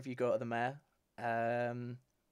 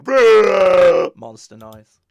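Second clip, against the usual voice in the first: loud laughing announcement; 7 semitones higher, 22 dB louder, much slower than usual. Acted. GM announces a monster noise.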